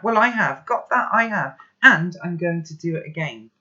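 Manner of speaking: high, loud and cutting; furious shouting. Acted. Boy shouting angrily at calm grandpa. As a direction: hurl every word at him.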